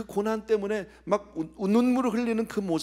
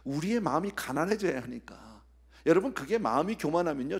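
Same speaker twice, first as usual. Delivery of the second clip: normal talking voice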